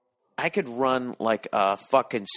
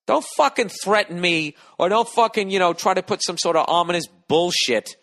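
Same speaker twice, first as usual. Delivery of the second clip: louder, higher heated rant at a listener; a real telling-off, voice raised; angry rant; 3 semitones higher, 3 dB louder than usual. Real, not acted. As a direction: tear into the guy who sent the email. Rant at email sender.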